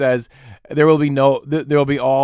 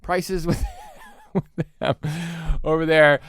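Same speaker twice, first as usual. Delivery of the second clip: pushy customer bargaining; 5 semitones higher, 4 dB quieter, faster than usual. Pretend. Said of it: "Be like".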